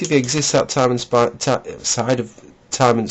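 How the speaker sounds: numb mouth after fillings; slurring through a numb mouth; numb from the dentist. Real, not acted. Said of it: "My side of my mouth is all numb".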